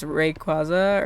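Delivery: "Rayquaza" said ray-KWAH-zuh. Shown as a demonstration. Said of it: "I say Rayquaza, but I know some people say Rayquaza".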